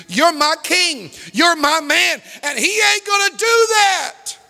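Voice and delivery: building to a high, impassioned shout; fervent loyalty. Acted. Mighty man defends his king, fervent and building. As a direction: declare it with rising defiance.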